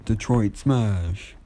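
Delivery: slow, drawn-out mock attack shout; attack cry. All Might strikes the sludge villain, slow drawn-out battle cry. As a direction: stretch the hero's move name out slowly.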